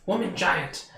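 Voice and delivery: high scheming little fairy. Acted. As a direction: plot in a tiny high voice. Fairy plots.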